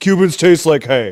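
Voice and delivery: mock very loud, sarcastic angry man voice, yelling. Retelling their cigar review from this morning, in a mock-angry guy voice. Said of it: "in a a guy an angry guy voice".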